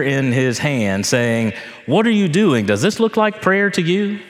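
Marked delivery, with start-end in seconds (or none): 1.9-4.2 high-pitched, incredulous scolding; mock outrage, pitched well up; indignant rebuke. Imagined rabbi scolding money changers over prayer, indignant.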